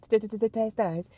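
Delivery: "t-, t-, t-, t-, taste nice" with a scratched, stuttered "t". Shown as a demonstration. Stuttered remix of the phrase.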